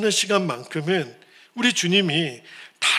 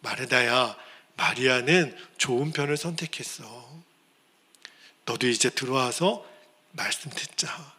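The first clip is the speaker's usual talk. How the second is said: gentle Jesus; 4 semitones lower, 5 dB quieter than usual. Retold or imitated. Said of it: "그래서 예수님이".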